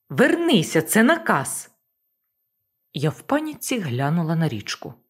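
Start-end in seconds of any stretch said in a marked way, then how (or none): 0.1-1.7 higher, louder repeated order; insist, now pitched up with urgency; urgent shout. Acted. Boss insisting Marko obey, higher urgent shout.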